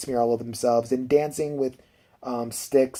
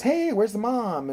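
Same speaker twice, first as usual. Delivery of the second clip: higher, drawn-out mock dad call; imitating waking dad; 9 semitones higher, slower than usual. Daddy wakes up looking for mom, mock calling voice. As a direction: call out slowly as a puzzled dad.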